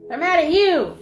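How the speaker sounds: high laughing taunt; real laughter mocking the spirits. Real, not acted. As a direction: laugh through the words. Laughing at the entities.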